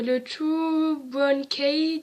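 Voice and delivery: slow, drawn-out attempt at English; clumsy French-accented English; bad English accent. Real, not acted. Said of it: "désolé pour mon accent pourri".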